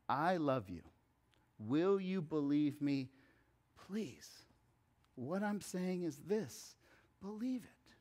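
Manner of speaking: soft, pleading and gentle; a quiet plea of love; tender proposal. Retold or imitated. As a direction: ask it like a marriage proposal. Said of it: "It's more like a proposal".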